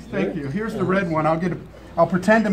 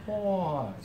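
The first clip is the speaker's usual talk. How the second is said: slow motion; 4 dB quieter, slower than usual. Shown as a demonstration. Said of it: "slow motion".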